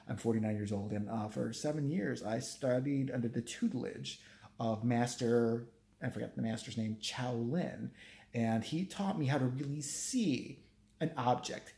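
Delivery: mock his solemn bragging; pompous artist. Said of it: "Another thing he truly said".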